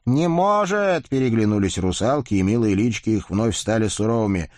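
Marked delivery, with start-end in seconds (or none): 0.1-1.1 high, slow shocked cry; surprised exclaim. A narrator's reading. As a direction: gasp it out, shocked. Rusalkas exclaim.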